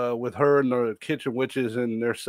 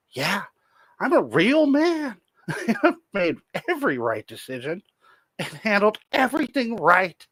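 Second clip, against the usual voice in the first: reads the description in a pompous, higher put-on voice; lightly hammed-up self-praise, pitched up on the boasts; mock boastful read; 3 semitones higher than usual. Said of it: "We're back to fucking books of descriptions".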